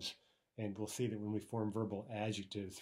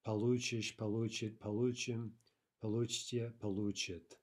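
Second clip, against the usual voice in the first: получишь, получит, получим, получите, all stressed on лу; stress shifted back. Shown as a demonstration. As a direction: recite each form from получишь on with stress pulled back to лу. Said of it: "but then shifting back".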